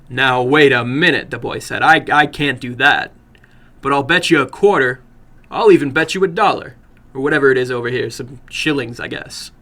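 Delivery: put-on a touch of a protesting boy; eager young American. Narrator voices the boy.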